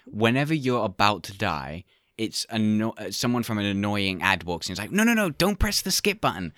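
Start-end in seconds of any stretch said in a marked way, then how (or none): 4.9-6.5 ad man voice. Pretend. Acted ad man.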